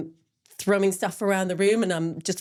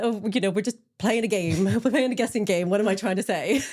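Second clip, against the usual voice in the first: higher, playful retelling with a laugh; joking; 4 semitones higher than usual. Retold or imitated. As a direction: make light of your own memory slip. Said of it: "I joke about it".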